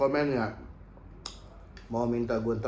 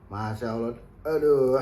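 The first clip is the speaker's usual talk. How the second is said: gasping from the spicy heat; mouth burning from spicy food; 4 dB louder than usual. Real, not acted. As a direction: say it with your mouth on fire. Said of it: "pedes banget". (kepedasan, mulut terbakar)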